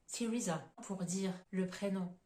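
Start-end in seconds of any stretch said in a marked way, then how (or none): 0.1-0.6 "Teresa" starting with a plain T; English Teresa. Shown as a demonstration. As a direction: say "Teresa" with no h sound. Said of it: "autre exemple".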